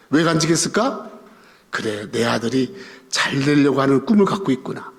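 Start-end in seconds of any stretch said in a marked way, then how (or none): 1.7-4.9 low, measured fatherly musing; understated, deep-toned contentment; quietly pleased father. Acted. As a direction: lightly voice a father privately proud of his son. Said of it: "아버지는 기쁜 거예요".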